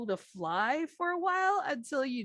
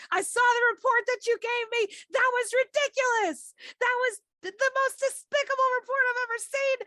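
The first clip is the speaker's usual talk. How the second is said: high, loud berating boss voice; a shrill boss tearing into a worker's report; angry boss; 6 dB louder, faster than usual. Acted. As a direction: chew out the employee like a furious boss. Boss scolding employee, GM voices NPC.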